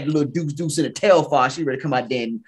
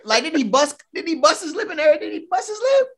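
surprised; 12 semitones higher than usual. Real, not acted. Rising questions.

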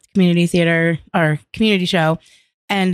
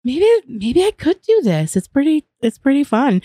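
excited; 7 semitones higher than usual. Retold or imitated. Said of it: "And I was just like".

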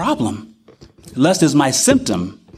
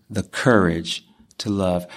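softer echo; 9 semitones lower, 5 dB quieter, slower than usual. Real, not acted.

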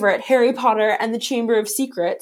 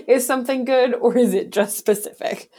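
incredulous; 3 semitones higher, 4 dB louder than usual. Acted. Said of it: "Like, is it actually any good or is it just a specific thing?".

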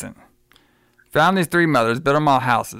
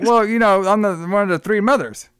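higher, lightly acted villain's reveal; lightly voiced witch; 4 semitones higher than usual. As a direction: play the witch introducing herself, a touch theatrical. Voices the witch in retold scene.

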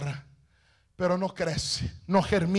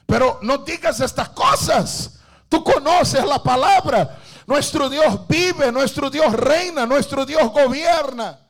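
insistent husband; 2 semitones higher than usual. Acted. Husband insisting in acted quarrel.

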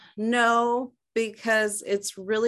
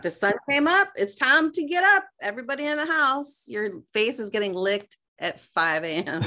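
excited dog voice; 5 semitones higher than usual. Retold or imitated. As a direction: burst in like an eager dog.

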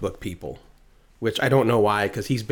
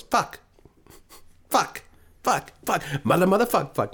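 put-on baby Jay; 8 semitones higher than usual. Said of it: "a baby Jay ... he goes".

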